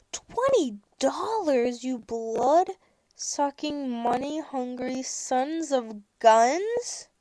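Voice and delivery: drawn-out mock outrage, word by word; slow, theatrical indignation. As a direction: spell out each insult slowly. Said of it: "mock outrage at parking fee".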